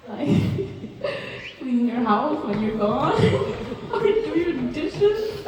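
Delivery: high, giggly and breaking into laughs; laughing through tears. Real, not acted. Cousin laughing through her toast to Nicole. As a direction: laugh your way through the list.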